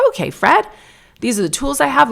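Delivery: put-on high, lifted voice for a child patient; friendly hygienist. Hygienist introducing her tools to a child, high and encouraging. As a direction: imitate a hygienist talking to a little boy.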